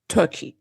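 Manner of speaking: "Turkey" pitched low with a falling end; trying a pronunciation. Shown as a demonstration. Podcaster testing the country's name, "Turkey" low and falling. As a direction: drop "Turkey" low, as a final attempt. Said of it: "How do you pronounce it?".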